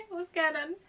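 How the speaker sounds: incredulous loud repeat after a laugh; exclaimed. Acted. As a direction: throw it out in disbelief.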